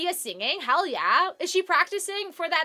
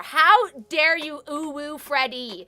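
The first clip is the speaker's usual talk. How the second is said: mock outrage; 4 dB louder, much slower than usual. Mock offense at friend's joke.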